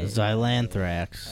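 slow, careful pronunciation. Shown as a demonstration. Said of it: "repeats the word slowly".

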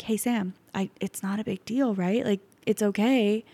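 lightly voiced soothing husband; calm reassuring. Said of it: "my husband, so calm".

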